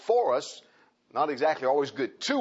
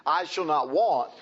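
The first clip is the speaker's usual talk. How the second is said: want drawn out and leaned on, slower; stress on want; 2 semitones higher, 3 dB louder, slower than usual. Shown as a demonstration. Pastor explaining the word to the congregation, "want" stressed. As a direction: press down on "want". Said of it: "the word want means to be deficient".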